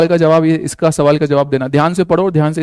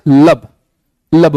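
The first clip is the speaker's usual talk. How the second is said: loving lub; 2 semitones lower, 3 dB louder, much slower than usual. Shown as a demonstration. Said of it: "बहुत ही प्यार से आपके heart ने बोला है क्या?".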